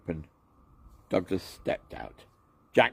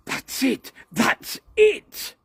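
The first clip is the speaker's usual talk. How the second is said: much higher, delighted cry; excited shout; 7 dB louder, much slower than usual. A narrator's reading. Douglas cheering Jack, high and delighted. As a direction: cheer the cat on. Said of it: "shouted Douglas".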